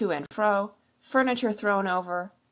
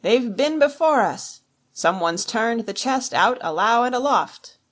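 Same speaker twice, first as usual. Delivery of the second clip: loud, higher call from a window; raised, urgent report; alarmed cry; 4 semitones higher, 6 dB louder than usual. A narrator's reading. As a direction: shout the bad news down. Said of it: "he cried".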